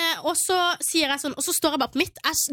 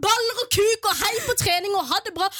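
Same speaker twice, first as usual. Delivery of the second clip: retold shout; 4 semitones higher than usual. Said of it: "jeg roper over hele stua".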